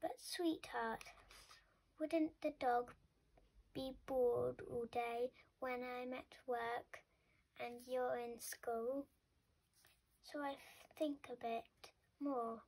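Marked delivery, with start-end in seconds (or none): 0.0-9.1 soothing, explaining. Acted. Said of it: "in her soothing and explaining voice".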